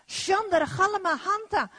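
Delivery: speaking in tongues. Real, not acted. Preacher speaks in tongues mid-sermon.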